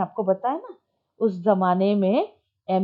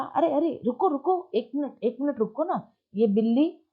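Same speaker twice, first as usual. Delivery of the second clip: eager calling out; 4 semitones higher than usual. Shown as a demonstration. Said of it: "वो बोला".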